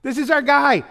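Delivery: very high, slow shout; crowd cheering. Retold or imitated. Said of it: "throwing their cloaks down".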